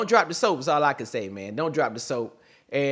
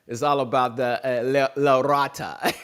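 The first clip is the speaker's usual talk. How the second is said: Batman voice; 2 semitones lower than usual. Retold or imitated. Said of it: "in accordance to the Batman too".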